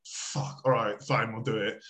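low-key, under-the-breath giving in; resigned agreement. Retold or imitated. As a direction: mutter a reluctant yes, imitating your reaction. Retelling his reluctant agreement to help.

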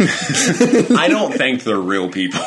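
slow words through real laughter; laughing it out, slowly. Real, not acted. To her co-host about the Harry Potter cast, laughing slowly.

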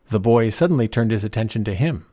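ordinary delivery

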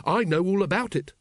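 high, triumphant announcement. Acted. Carrot tells his captain he has answers, triumphant. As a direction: proudly show off what you know. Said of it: "said Carrot triumphantly".

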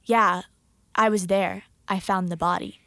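low, halting retold confession; dead serious. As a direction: imitate a grave, matter-of-fact admission. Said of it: "he was so serious".

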